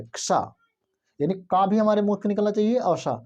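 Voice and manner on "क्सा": क्सा said as half k joined to sa, "ksa"; half k plus sa. Shown as a demonstration. Teacher shows students how to join the letters, careful demo. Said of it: "तो हम क्या कहेंगे".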